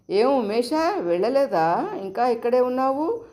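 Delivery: high, mildly surprised asking; why are you still here; surprised question. Acted. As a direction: mistress surprised to find the servant boy still home, voice pitched high. Mistress questions servant boy surprised.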